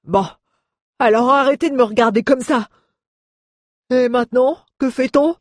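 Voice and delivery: high, loud grumpy order; annoyed dwarf. Acted. Dwarf, annoyed, tells friends to stop staring. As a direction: brush them off gruffly.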